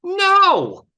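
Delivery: a loud high cry of no; emphatic no. Real, not acted. Speaker rejecting a band that thanks fans first, loud. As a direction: shut the idea down hard, half laughing.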